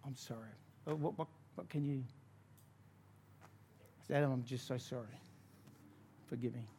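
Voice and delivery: humbled apology. Retold or imitated. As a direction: retell a remorseful plea almost under your breath. Retold humbled apology to Adam.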